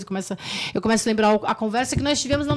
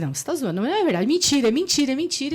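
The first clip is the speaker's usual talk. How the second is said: desespero; 4 semitones higher, 3 dB louder, faster than usual. Retold or imitated. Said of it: "perdi o meu controle".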